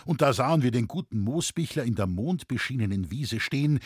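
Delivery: usual speaking voice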